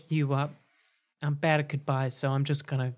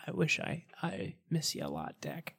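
sad quiet; 2 semitones higher, 6 dB quieter than usual. Acted. Sad goodbye to Dak.

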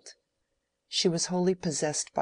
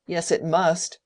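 loud angry retort; angrily; 8 dB louder than usual. A narrator's reading. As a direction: snap back at her, much louder.

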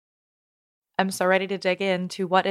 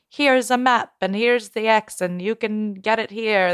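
lightly voiced playful pirate; a hint of a hammy pirate; 2 semitones higher than usual. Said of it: "That's my pirate voice".

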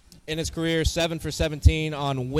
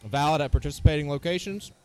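fast legal disclaimer. Acted. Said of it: "Fine print guy, anything we missed".

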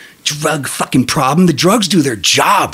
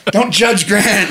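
granny voice; 5 semitones higher, slower than usual. Retold or imitated. Granny defending grandson to family, lightly doting voice. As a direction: defend the grandson sweetly and fondly. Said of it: "Granny was like".

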